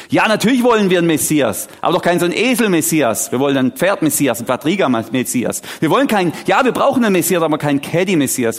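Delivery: indignant protest. Acted. Preacher voices people wanting another Messiah, indignant. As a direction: object like a disappointed, demanding crowd. Acted crowd protesting unmet expectations.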